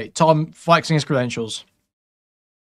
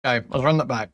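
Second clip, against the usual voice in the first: talking while eating cereal; words around a mouthful of cereal; 2 semitones lower than usual. Real, not acted. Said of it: "Sorry, I'm taking cereal while I'm".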